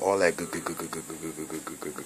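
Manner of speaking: playful fade-out on "good, good, good"; fading away. Real, not acted. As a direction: let the repeated "good" trail off to nothing. Playful trailing repetition.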